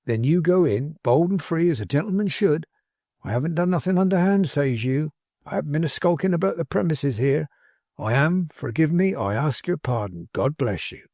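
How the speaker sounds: lightly folksy servant rehearsing a speech; lightly voiced plain-spoken manservant. Manservant coaching his master's apology, lightly folksy and bold.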